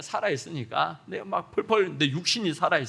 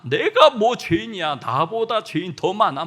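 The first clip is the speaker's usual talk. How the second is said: self-justifying sinner; 3 semitones higher, 7 dB louder than usual. Retold or imitated.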